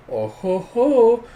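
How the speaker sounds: slow, high, loud ho-ho-ho; haughty little gloat; smug mock laugh. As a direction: gloat with a drawn-out put-on chuckle. Anya gloats in retelling.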